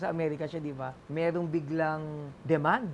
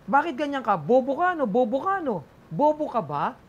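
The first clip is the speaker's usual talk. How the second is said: higher and louder mock yell at the comedian; imitated angry heckler; 6 semitones higher, 7 dB louder than usual. Heckler standing up shouting at comic onstage, mock yell. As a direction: play the heckler, loud and insulting. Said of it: "May tumayo".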